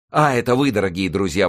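high, loud burst of welcome; delighted exclamation. A narrator's reading. Youth greeting unexpected friends, excited exclamation. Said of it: "воскликнул он".

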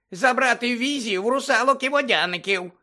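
Dobby the house-elf squeaking at Harry; squeaky house-elf. Acted. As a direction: squeak it like an anxious little elf.

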